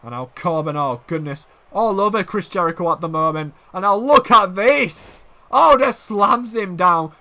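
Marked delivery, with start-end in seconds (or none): 3.7-7.1 drawn-out excited wrestling commentary; excited call. Real, not acted. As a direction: stretch the big words as the slam lands.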